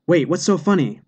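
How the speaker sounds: a touch of startled shouting; mild surprised shout. Acted. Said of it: "the man shouted".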